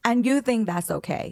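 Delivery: slow, pointed, stress on "you", falling; incredulous. Acted. Host challenging the cheating boyfriend, disbelieving and slow. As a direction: lean hard on "you" and let it drop in disbelief.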